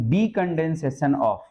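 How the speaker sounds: decondension of said very slowly, each syllable stretched; slow dictation. Shown as a demonstration. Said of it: "क्या लिख दूं". (धीरे-धीरे लिखवाना)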